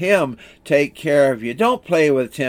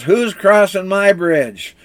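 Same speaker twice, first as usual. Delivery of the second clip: higher-pitched, lightly acted troll demand; mock troll challenge; 5 semitones higher, 4 dB louder than usual. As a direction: challenge the goat like a storybook troll.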